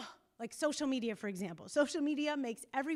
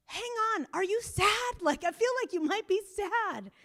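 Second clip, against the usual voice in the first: much higher and louder, eager and pressing; pretend urgent question; 9 semitones higher, 8 dB louder than usual. Therapist imagining she's telling NFL players they're sad, loud and high. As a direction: burst in, eager to get them to admit it.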